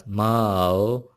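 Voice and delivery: माओ drawn out and rising. Shown as a demonstration. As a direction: stretch माओ upward. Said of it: "खींच के पढ़ेंगे rising tone के साथ". (माओ उठती tone में)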